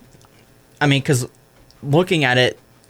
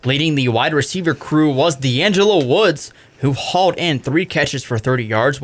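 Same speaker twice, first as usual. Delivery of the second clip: sports report read. Acted. Reads game recap script.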